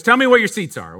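lightly imitated Boston old lady; mild Boston accent as the old lady. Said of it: "She goes".

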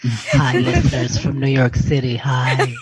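low, hoarse morning frog voice. Real, not acted. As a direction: croak it out like a frog. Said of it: "I have my sexy frog voice".

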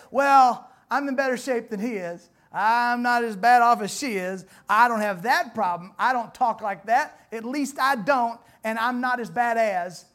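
a hint of smug self-comparison; loud, mock self-satisfied; smug churchgoer. Preacher mimicking churchgoers, mildly smug. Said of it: "comparing ourselves to each other and say".

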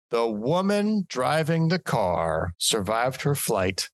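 slow news read with "woman" drawn out and emphasized; stress on woman. Real, not acted. Host reading a crash report, pointed stress on "woman". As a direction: lean slowly on "woman". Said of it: "a word you emphasized in that paragraph".

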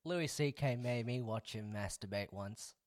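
low, soft deadpan; mock confession. Host sets up a joke for his friend, hushed deadpan confession.

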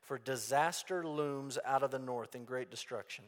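measured, solemn Bible reading; scripture reading. Acted. Preacher reading Jeremiah's warning to the congregation, solemn. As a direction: read the prophecy out with weight.

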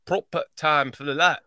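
learner's Yorkshire "proper time"; imitated Yorkshire accent. Host tries what he was shown, Yorkshire imitation. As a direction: copy the northern English phrase. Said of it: "Like, that's what".

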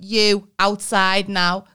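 slow firm order to the teacher; stern command. Retold or imitated. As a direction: demand he step out. Nan confronting the teacher.

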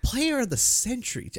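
high-pitched mock Asian-accent impression; teasing high voice in a hammed-up Asian accent. Mimics the accent just discussed.

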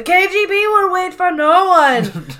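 retelling Jim's slap line to a co-host, mock sinister; mock menacing Jim. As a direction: lay down the threat like a spy. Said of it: "and then he says".

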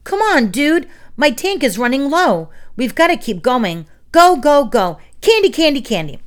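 high, loud urgent pleading; sugar-fueled frenzy. A narrator's reading. Roach begs to keep going for candy, frenzied. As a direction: egg them on like a kid wired on sugar. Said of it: "in a sugar-fueled frenzy".

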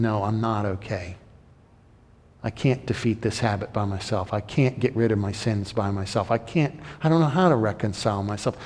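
a sinner quietly owning up; quiet confession. Pretend. A believer admitting defeat to God, soft and humbled.

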